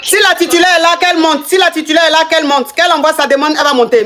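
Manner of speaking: high-pitched summons; calling out. Real, not acted. Host summoning the titular partner to join the live, calling out.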